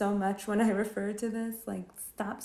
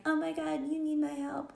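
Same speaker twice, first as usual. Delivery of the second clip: much higher, then a breathy mocking whisper; 8 semitones higher than usual. Mocking the hero who barges in to help, high then whispered. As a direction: sneer at a self-important rescuer.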